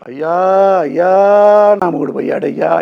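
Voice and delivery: imitating a loud, high, wailing widow; mock widow's wail. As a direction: ham up the mourning cry he forbids. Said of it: "ఇట్లాంటివి వద్దు". (భర్త పోయాడని ఏడ్చే విధవను ఎగతాళిగా అనుకరిస్తూ గట్టి ఏడుపు)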